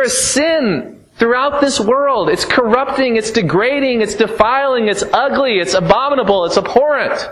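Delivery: high, ringing sermon voice rising to a climax; fiery preaching. Acted. Preacher thundering at the congregation against sin. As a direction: thunder it from the pulpit.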